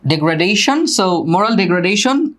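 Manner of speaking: drawn-out careful phrase; slow model phrase. Shown as a demonstration. Teacher repeating a phrase for the class, slowly. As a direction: stretch it so students catch it.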